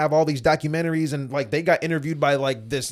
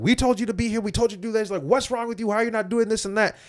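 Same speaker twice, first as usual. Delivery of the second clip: mock scolding; 8 semitones higher than usual. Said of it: "they start yelling at me".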